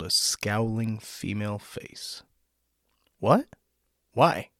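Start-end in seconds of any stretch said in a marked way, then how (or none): 3.2-4.5 higher and louder, baffled; startled. A narrator's reading. Scowling woman answering the door, startled and incredulous. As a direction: snap back in disbelief.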